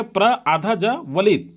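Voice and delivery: प्र आधा ज्वलित spoken slowly, piece by piece; walk through प्रज्वलित letter by letter; slow spelling breakdown. Shown as a demonstration. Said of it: "प्र आधा ज्वलित है".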